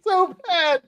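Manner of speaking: high, squealing laugh through the words; cracking up. Real, not acted. Host reacting to co-host's bad accent, real helpless laughter. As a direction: laugh helplessly while talking, voice shooting up.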